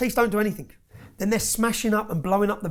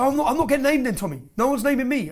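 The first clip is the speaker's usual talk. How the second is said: higher, louder imitation of the relieved caller; mock relieved gangster; 7 semitones higher, 5 dB louder than usual. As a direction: play the gangster, eager and loud, hoping he's off the hook. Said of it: "I said".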